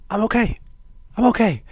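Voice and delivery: high, loud mock reassurance; high hammed-up I'm okay; imitating Heyman. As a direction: squeak out he's fine, hammed up. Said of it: "Heyman just looks at Punk and goes".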